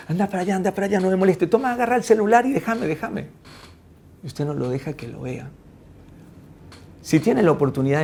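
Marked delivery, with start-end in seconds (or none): 0.1-3.3 higher, impatient shooing; hurried, irritated telling-off; dismissive parent. Acted. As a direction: play a parent brushing off a pestering child. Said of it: "Usted le dice".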